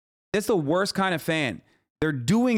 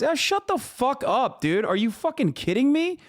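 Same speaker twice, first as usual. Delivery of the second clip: much higher, exasperated outburst; furious rant; 10 semitones higher than usual. Real, not acted. Streamer yells at the creator on screen, much higher and furious. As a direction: explode at the screen in disbelief.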